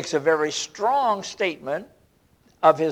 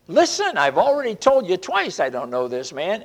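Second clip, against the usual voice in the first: angry denial. Retold or imitated. Peter to the crowd, denying Jesus a third time, in anger. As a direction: bark the denial, rising sharply on the first word. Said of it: "from an angry voice".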